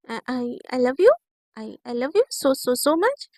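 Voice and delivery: slow, halting stammer of affection; nervous pleading. Acted. Naina placating her angry partner before leaving, nervous pleading. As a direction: timidly stumble through a love declaration. नैना डरते हुए मनाती.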